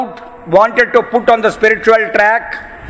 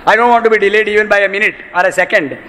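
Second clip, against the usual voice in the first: impatient plea; faster than usual. Retold or imitated. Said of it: "focus and say".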